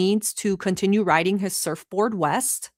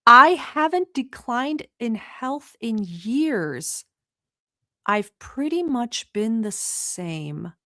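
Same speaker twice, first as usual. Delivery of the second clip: mocking repeat; much slower than usual. Mocking repeat of clip woman.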